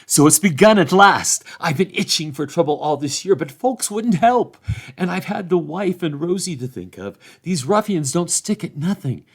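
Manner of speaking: put-on a relieved old farmer greeting a lost neighbour; gruff old farmer. A narrator's reading. Farmer Cotton rallies the lads.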